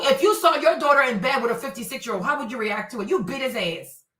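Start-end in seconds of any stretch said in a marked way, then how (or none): none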